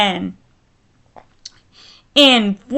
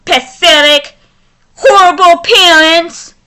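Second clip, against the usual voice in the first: raised, heated insults at the couple; venting anger. Real, not acted. Vlogger scolding the couple who abandoned their baby, angry. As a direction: let real fury spill into each insult. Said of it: "you make me so mad".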